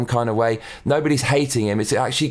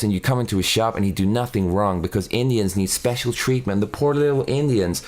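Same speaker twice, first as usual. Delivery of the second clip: parody plain-spoken voice actor; 2 semitones lower than usual. Acted. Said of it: "he would talk like this".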